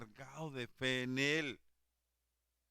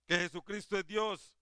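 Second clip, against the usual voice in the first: preached louder and higher, leaning on que; a proclaiming preacher's emphatic repeat; 6 semitones higher, 4 dB louder than usual. Acted. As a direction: drive it home the second time. Preacher repeats key claim louder.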